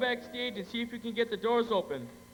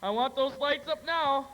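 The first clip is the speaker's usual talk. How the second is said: raised, higher-pitched order; urgent command; 4 semitones higher than usual. Acted. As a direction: call out orders in an emergency. Urgent orders after gunshot.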